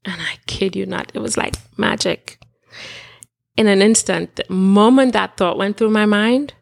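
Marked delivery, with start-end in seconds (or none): 0.1-2.4 hushed. Real, not acted. Awed recounting of spiritual moment.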